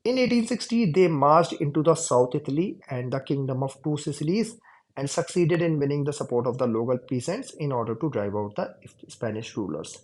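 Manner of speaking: slow, deliberate reading aloud; textbook reading. Shown as a demonstration. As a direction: read each word out slowly for the class. Reads textbook passage aloud. (धीमे-धीमे किताब से पढ़कर सुनाना)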